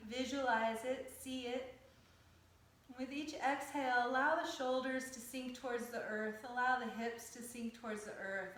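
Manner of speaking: calm, measured yoga teacher's cueing; guided yoga meditation. Acted. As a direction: guide them through breath and stretch, unhurried, with pauses. Leads yoga breathing and stretches.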